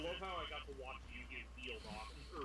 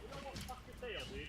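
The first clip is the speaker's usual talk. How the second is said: frustrated yell; 8 semitones higher than usual. Real, not acted. Cursing at the monster.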